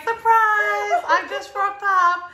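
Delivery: high, laughing and slow, like a silly surprise reveal; laughing mock surprise. Guest telling hosts how she burst in, high and giggling. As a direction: squeal it through giggles, slowly. Retelling her surprise arrival.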